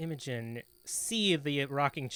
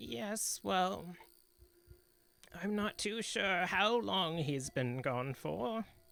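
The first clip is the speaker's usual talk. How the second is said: put-on elderly woman's voice, pitched high; 5 semitones higher than usual. Game master voices an old widow answering visitors in her home: old woman's voice. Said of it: "the head of a old woman, / it's not nice to walk into an old woman's home and promise her communication with her old loved ones only to pull / the head of a old woman, / He was a strong man, ran the m".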